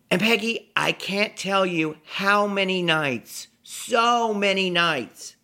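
high, slow, heartfelt gushing; effusive drunken confession. Retold or imitated. Drunk fan tells Peggy about many nights, high slow gushing. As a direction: pour it out slowly to your idol.

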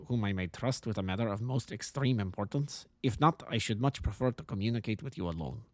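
lightly voiced formal Bohemian nobleman with German accent; a touch of a harsh German-accented aristocrat; German-accented count. Client introducing himself to the detective, lightly voiced German-accented count.

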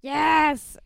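egging Jules on at the TV; cheering her on. Retold or imitated. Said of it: "And I was like".

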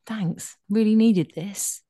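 drawn-out sarcastic thanks; slow, insincere appreciation; mock gratitude. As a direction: feign thanks for an unwanted present. Acting out reaction to unwanted gift.

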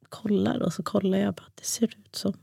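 whispered, barely voiced; hushed disbelief. Mother on the ultrasound table, whispering in disbelief. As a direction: breathe it out while staring at the screen.

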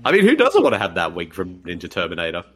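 deep dad voice; low fatherly voice. Pretend. Same low voice.

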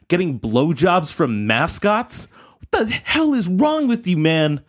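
exasperated outburst. Real, not acted.

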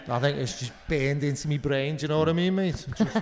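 put-on Scouse accent, lively and chatty; Liverpool accent. Shown as a demonstration. Showing he can do it, playful Liverpool accent. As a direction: show off your Scouse, lifting into a laugh. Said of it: "doing a Liverpool accident, accent".

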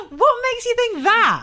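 high, slow, laughing disbelief; laughing question. Real, not acted. Co-host doubting the spy theory, laughing incredulously. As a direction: ask it through real laughter.

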